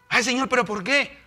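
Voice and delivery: high, pleading mock complaint; plaintive questioning. Believer questioning God's plan, plaintive. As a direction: lightly whine it upward as a plea.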